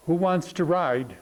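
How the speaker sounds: slow, calm question; retold calm voice. Tightrope walker asks the hushed crowd for a volunteer, calm. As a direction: ask it calmly and unhurriedly. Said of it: "in just a calm voice".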